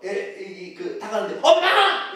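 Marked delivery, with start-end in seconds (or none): 1.4-2.1 mock panicked yell for mom; loud, high shriek of alarm; startled cry. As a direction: act out a sudden fright. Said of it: "이러면 되겠어요?".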